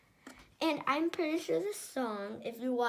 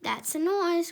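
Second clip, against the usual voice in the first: grinning Grinch; 6 semitones higher, 6 dB louder than usual. Acted. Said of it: "grinned the Grinch".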